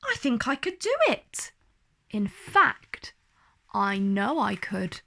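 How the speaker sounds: building certainty, rising then settling; growing confidence. Acted. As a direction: talk yourself into it. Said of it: "her confidence growing".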